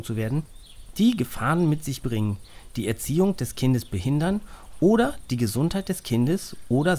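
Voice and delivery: formal, measured legal reading; reading aloud. A narrator's reading. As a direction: read the law article clearly. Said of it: "liest Papa den Artikel ... vor".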